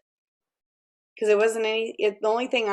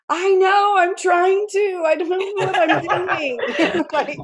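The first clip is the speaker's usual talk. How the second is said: higher, louder, laughing at herself; flustered laughing reply; 10 semitones higher, 4 dB louder, slower than usual. Retold or imitated. Her flustered reply to advice.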